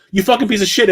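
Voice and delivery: "You fucking piece of shit" rushed together with no breaks between words; run together as one word. Retold or imitated. Retelling a game enemy's line as one run-together word. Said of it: "as if it's one word".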